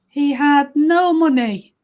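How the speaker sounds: slow, emphatic story narration; unhurried tale for children; storytelling. Acted. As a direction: linger on the key words.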